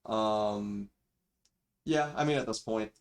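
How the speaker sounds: thin built-in microphone audio; cheap default mic. Real, not acted. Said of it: "sorry for the mic quality".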